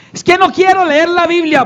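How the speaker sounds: high-pitched protesting excuse; mock reluctance. Believer resisting Bible reading, mock reluctant protest. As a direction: play a reluctant believer, lightly exaggerated.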